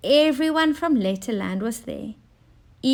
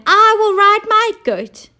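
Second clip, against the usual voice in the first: giggling; 12 semitones higher, 8 dB louder than usual. A narrator's reading. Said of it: "giggled Golden Girl".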